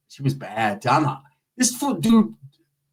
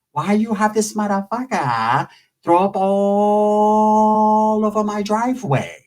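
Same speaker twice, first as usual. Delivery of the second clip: put-on angry Asian dad accent; 5 semitones higher, much slower than usual. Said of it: "he's mad".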